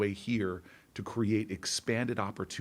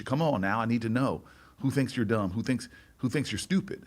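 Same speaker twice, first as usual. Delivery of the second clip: put-on impatient teacher in a Southern accent, a bit louder; 3 semitones higher, 4 dB louder than usual. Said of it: "best I can do, uh, an accent".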